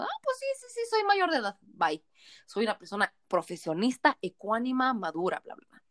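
put-on a kid lightly faking adulthood; fake grown-up voice. Her thirteen-year-old self lying online.

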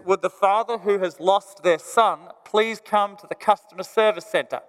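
smooth voice like a store PA; loudspeaker announcement. Retold or imitated. Store announcer paging the lost boy's father, over the PA. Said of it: "over the loudspeaker comes this, uh, this beautiful voice".

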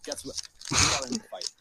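retold mom breaking the news, rising high; mock mom announcement, climbing in pitch; lightly voiced mom reporting on her kid; imitating upset mom. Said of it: "my mom's like".

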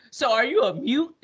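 high, puzzled question. Retold or imitated. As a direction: ask it up high, baffled. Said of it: "he said".

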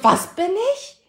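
high, baffled question. Retold or imitated. Repeating her shocked question to her friend, high and baffled. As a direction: ask it as if you misheard. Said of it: "Ich so".

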